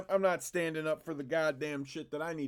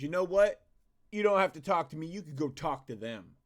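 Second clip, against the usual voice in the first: mocking Seth; 2 semitones higher, 4 dB louder than usual. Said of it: "he goes".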